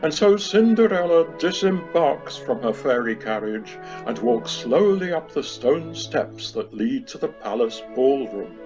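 ordinary talk, nothing marked

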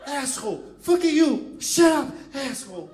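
loud, high English swearing; mock angry American yell; American cursing. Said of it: "querendo xingar".

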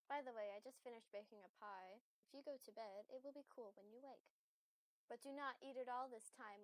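a hint of a tender mother welcoming her child home; motherly voice. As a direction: read it like a kind mother greeting her child. Voicing the mother's dialogue.

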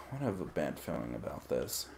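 low, soft gruff quote; movie quote voice. Retold or imitated. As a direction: murmur it like a weary hero.

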